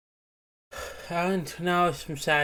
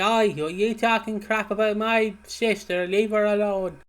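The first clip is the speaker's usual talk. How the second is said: higher-pitched, scrappy mock telling-off; 6 semitones higher, 4 dB louder than usual. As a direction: pick a fight like a feisty sister. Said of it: "She has a very scrappy voice".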